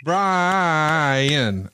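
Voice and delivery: "Brian" with an extra syllable; drawled Brian. Shown as a demonstration. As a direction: say "Brian" the long Southern way. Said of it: "it's got an extra syllable when you do it".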